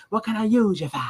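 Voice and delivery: high, exaggerated movie Boston accent; Jack Nicholson. Imitating an actor in The Departed, mock Boston accent. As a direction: overdo a dropped-R Boston accent. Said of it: "when Jack Nicholson talks".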